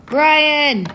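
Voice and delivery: high, loud shout of a name; sudden loud, high exclamation; excited call. Real, not acted. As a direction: call out to a friend with delight. Calling out a friend's name.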